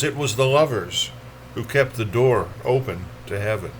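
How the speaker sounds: recited line at a steady, full level; first statement of a poem's refrain; poetry reading. Acted. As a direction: state the verse line firmly, letting it descend. First take of a repeated poem line.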